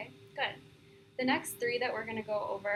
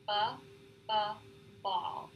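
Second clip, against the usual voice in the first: bounce; slower than usual. Shown as a demonstration. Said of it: "A bounce is a more controlled repetition".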